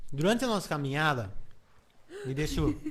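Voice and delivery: talking through a mouthful; mouth full. Real, not acted. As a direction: speak round a bite of pizza. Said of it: "não falar de boca cheia".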